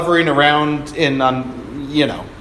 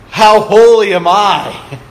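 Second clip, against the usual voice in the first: slow, louder, smug and self-pleased; mock smug pride; 4 semitones higher, 6 dB louder than usual. Preacher mocking a smug churchgoer, hammed-up pride. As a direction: puff up like a pious show-off.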